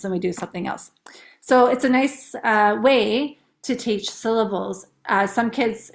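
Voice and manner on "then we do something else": whisper. Real, not acted. Whispered aside.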